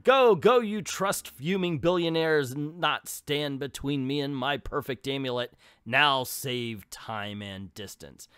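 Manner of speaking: first take of a villain line; a shrill first go at the villainess; rejected read. Shown as a demonstration. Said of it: "Let's read that again".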